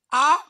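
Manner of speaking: loud exclamation. Acted. Outcry in the retold scene.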